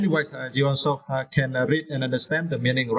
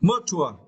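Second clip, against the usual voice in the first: Mature with tua stressed, a touch higher; stress on second syllable; 3 semitones higher than usual. Shown as a demonstration. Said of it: "stress the second syllable".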